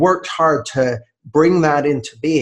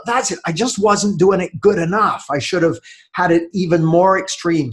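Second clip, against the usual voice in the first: retold realization; 5 semitones higher than usual. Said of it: "I thought".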